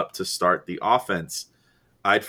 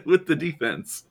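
imitated broadcaster; 6 semitones higher than usual. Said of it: "He's finally like".

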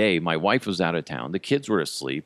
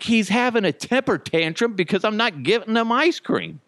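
strained over-patient explanation; exasperated explaining; 13 semitones higher than usual. Retold or imitated. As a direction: spell it out like it's obvious to a meddler. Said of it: "I'm like".

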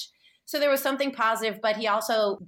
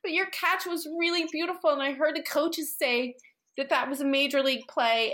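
retold consoling; 6 semitones higher than usual. Mother consoling upset son, retold.

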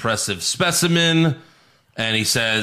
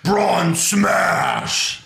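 mock yell; 5 semitones higher than usual. Host recapping what the wrestler yelled, mock yell. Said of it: "he yelled".

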